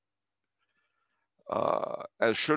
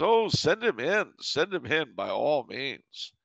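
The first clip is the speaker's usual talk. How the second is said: slow, much higher, over-gracious invitation; sly mock welcome; 5 semitones higher, slower than usual. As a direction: roll out a fake red carpet. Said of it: "my father winks at me".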